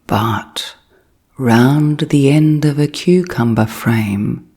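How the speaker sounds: measured storybook reading with long pauses between phrases; bedtime story narration. A narrator's reading. Narrator reading The Tale of Peter Rabbit as a sleep story, gentle storytelling. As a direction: tell it unhurriedly, leaving room to drift off.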